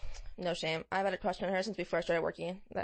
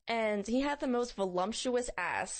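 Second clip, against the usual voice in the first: laughing; slower than usual. Real, not acted. Gushing about passerby, laughing.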